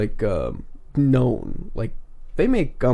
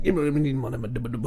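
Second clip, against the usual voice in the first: Creole man ordering; 7 dB quieter than usual. Pretend. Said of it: "let a Creole man go into a Tim Hortons and order".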